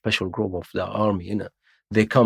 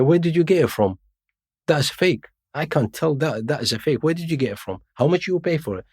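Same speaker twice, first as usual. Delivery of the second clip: higher-pitched accusing questions, lightly acted; retold interrogation; 6 semitones higher than usual. Officer doubting the ID at a checkpoint, mildly accusing. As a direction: press him like a suspicious officer.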